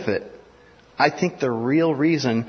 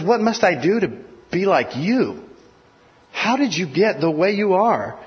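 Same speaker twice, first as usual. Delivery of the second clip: lightly voiced desperate jailer, higher; pleading jailer; 5 semitones higher than usual. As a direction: beg like a frightened guard, pitched up. Jailer begging Paul, acted.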